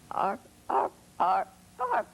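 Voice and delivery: kangaroo noise. Retold or imitated.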